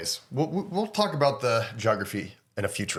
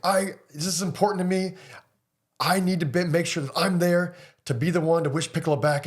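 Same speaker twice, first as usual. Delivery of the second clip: Gohan's speech; 5 semitones higher than usual. Retold or imitated. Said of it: "really cool little speech saying".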